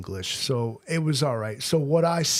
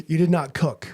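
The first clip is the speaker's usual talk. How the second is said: laughing retort; 3 semitones higher, 5 dB louder than usual. Retold or imitated. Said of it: "I was like".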